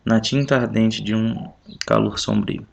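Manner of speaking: measured, expressive reading of verse; poem recital. Acted. Teacher reads the sonnet aloud to the class, measured poem recital. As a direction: read the sonnet with care, line by line.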